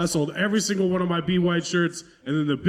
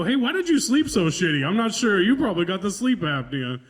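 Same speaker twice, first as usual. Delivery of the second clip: test staff; 3 semitones higher than usual. Retold or imitated. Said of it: "and they go".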